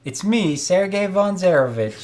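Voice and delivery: a boastful showman hyping the crowd. Acted. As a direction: pump up the crowd. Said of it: "hyping the crowd".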